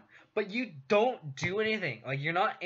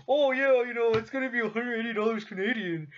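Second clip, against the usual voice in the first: lightly voiced, higher and louder breezy friend; casual Canadian friend; 6 semitones higher, 4 dB louder than usual. Retelling a Canadian roommate quoting prices, breezy. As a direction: toss it off like it's nothing. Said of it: "he's like".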